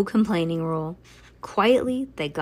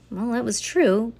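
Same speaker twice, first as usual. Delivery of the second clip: ordinary delivery, nothing marked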